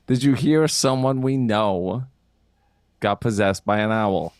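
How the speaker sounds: slow question with a pause midway; measured, spelled-out question; slow, deliberate repeat. Real, not acted. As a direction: repeat it slowly, with pointed patience. Repeats joke question with pointed patience.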